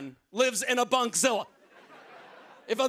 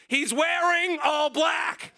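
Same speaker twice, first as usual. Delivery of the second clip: slow, raised dad yell; 5 semitones higher, much slower than usual. Retold or imitated. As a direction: call it across the room. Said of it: "He yells out".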